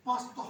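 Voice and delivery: पास्ता with a short clean ending; pasta said right. Shown as a demonstration. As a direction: say पास्ता, one sound at the end. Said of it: "आखिर पर एक ही sound निकलेगी". (पास्ता सही उच्चारण में)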